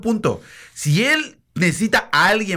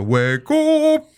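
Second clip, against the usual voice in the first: teasing high "hueco"; mocking imitation; 8 semitones higher than usual. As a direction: mimic the mocking heckle. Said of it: "me hizo".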